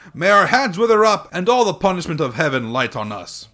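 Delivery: high, loud imploring voice; begging student. A narrator's reading. Students begging the old woman, imploring. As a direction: plead for mercy.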